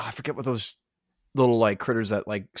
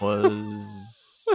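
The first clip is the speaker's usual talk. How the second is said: high drawn-out squeal; much slower than usual. Pretend. Drawn-out cute word.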